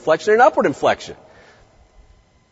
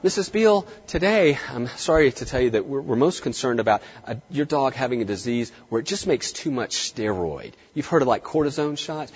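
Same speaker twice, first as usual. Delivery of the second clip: a little softer, apologetic and hedging; dumbed-down explanation; 3 semitones lower, 6 dB quieter than usual. Shown as a demonstration. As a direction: talk down to the owner, simplifying. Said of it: "If you dumb it down".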